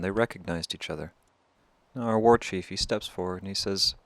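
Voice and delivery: ordinary delivery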